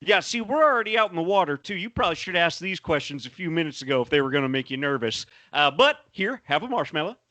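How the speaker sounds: lightly voiced Southern swamp guide; a hint of forty-niner in a tour guide's patter. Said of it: "a forty-niner".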